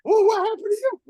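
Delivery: high, loud comeback; mock loud retort. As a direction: throw it back at him. Retorting to the coach.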